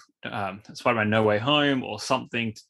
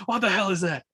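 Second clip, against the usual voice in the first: Venom's scream; 9 semitones higher than usual. Retold or imitated. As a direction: imitate a startled movie monster's shriek, lightly. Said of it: "That's just the way he screams".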